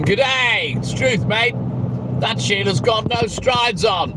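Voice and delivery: hammed-up Australian, slow on the last line; mock Australian accent. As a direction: play a cheery Aussie bloke, Australian accent throughout. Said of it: "What's wrong with my Australian accent?".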